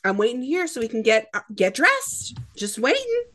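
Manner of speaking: high, sing-song fake innocence, rising to a squeak on the last line; mock innocent. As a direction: play it like a caught kid pretending nothing is up. Acting innocent while caught out.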